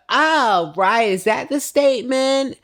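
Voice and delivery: high, loud, indignant mimicry; loud mock-offended comeback; mimicked affront. Acting out Portia's reaction to Marlo.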